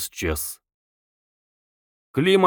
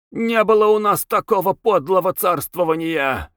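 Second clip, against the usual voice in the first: raised-pitch outraged screech; indignant, higher-pitched rant; screeching and hissing; 6 semitones higher than usual. A narrator's reading. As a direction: spit out the outrage in a high voice. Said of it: "визжал и шипел он".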